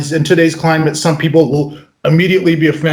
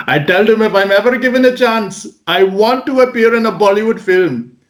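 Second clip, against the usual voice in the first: put-on playful Indian accent, pitched up; 4 semitones higher than usual. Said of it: "talking like this".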